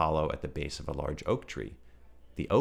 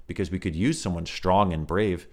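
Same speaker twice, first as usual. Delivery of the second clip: put-on baby kangaroo voice; 5 dB louder than usual. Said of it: "asked the baby kangaroo".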